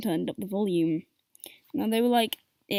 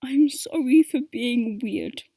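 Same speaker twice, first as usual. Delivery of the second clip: slow, louder call out to dad through the door; 5 dB louder, slower than usual. Retold or imitated. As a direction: call after him, drawn out and apologetic. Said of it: "feel the need to call out to him".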